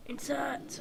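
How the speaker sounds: hushed half-whisper. Real, not acted. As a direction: drop the voice to a hush. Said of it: "I don't know why I'm whispering".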